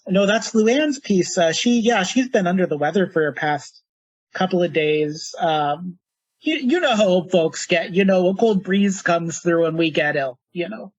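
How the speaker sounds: put-on light Minnesotan granny accent; Minnesotan grandmother. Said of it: "slipping into a Minnesotan accent for grandmothers".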